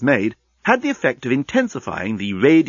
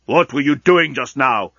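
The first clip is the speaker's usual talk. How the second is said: demanding; 2 semitones higher, 4 dB louder than usual. Acted. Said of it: "demanded the elderly lunatic".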